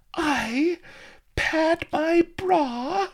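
very high, slow, outraged shriek; shrill with rage and dismay. A narrator's reading. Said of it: "she shrilled".

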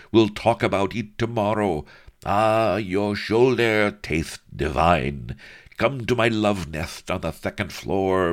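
hammed-up seduction; lustful lecher. A narrator's reading. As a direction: ham up the greedy suitor.

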